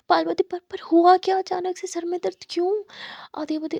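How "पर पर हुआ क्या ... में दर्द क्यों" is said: louder, higher worried question; a sister demanding answers; anxious demand. Acted. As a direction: press for an answer.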